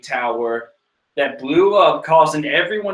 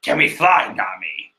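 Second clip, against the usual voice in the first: Solid Snake voice. Retold or imitated. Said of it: "I think I got it".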